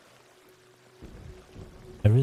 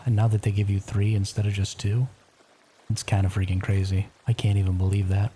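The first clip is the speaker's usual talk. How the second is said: library whisper. Real, not acted. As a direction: whisper so the house stays asleep. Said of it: "I am whispering".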